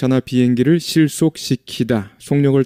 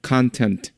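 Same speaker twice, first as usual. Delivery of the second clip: content stressed on the first syllable, CON-tent; stress on the front; 3 dB quieter than usual. Shown as a demonstration. Teacher showing content as noun, CON-tent. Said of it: "이렇게 앞에 온다고".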